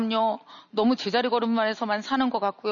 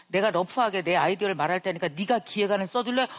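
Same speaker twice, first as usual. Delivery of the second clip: usual speaking voice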